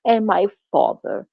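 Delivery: imitating his put-on accent on "Mother" and "father"; mock affected accent. Mocking his different accents, affected accent. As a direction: lightly mimic a fake accent. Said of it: "then he'd be like".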